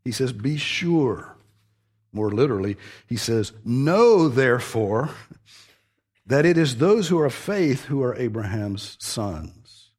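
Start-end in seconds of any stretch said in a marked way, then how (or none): 0.3-1.3 raised, firm stress on "Be sure."; emphatic. Retold or imitated. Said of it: "Paul is very emphatic in the way he says this". 3.6-9.9 "Know" hit high and loud, then a pause after "therefore"; forceful scripture quote, leaning hard on "Know"; emphatic. Retold or imitated. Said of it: "Paul is very emphatic in the way he says this".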